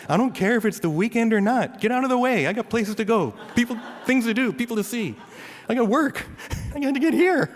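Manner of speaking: high-pitched, loud comic road rage; impatient driver's rant. Acted. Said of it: "these thoughts are going through my head".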